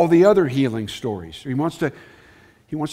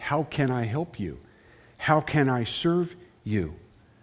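put-on tender, gentle tone; 6 dB quieter than usual. Speaker voices a question from a verse, not yelling, acting out a tender question. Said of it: "He's tenderly asking".

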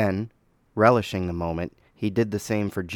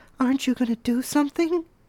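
put-on high falsetto girl voice, protesting. Narrator reads Martin voicing Millicent while Dennis watches, Millicent in falsetto girl voice. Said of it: "she protested in Martin's girl voice falsetto".

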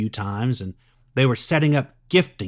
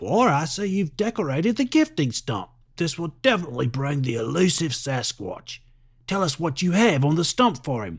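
bad fake Australian accent, nature-host style; 4 semitones higher than usual. Reading a story, a character filming his friend: fake Steve Irwin Australian accent. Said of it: "Using a fake Steve Irwin Australian accent".

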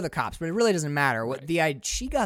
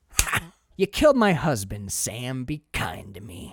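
brutal, hateful, venomous taunting tone; 4 semitones lower than usual. Describing an actor's scene in a film; imitating venomous mockery. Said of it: "such brutal venom in his voice".

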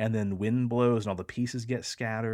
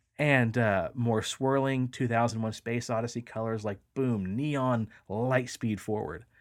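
plain

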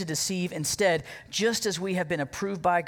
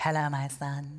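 creepy, effeminate villain voice, like a dub; 4 semitones lower, 3 dB quieter than usual. Mocking the dubbed Jesus in an old Gospel movie: effeminate Hannibal Lecter Jesus voice. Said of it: "make Jesus sound like an effeminate Hannibal Lecter".

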